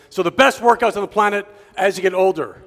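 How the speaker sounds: loud, emphatic pitch to the audience; too forceful. Real, not acted. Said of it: "Am I talking too loud, too forceful?".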